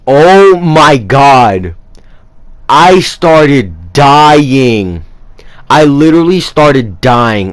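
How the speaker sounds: stretched slowly, breaking into laughter; barely holding back the laughter; laughing. Real, not acted. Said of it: "I was laughing so hard".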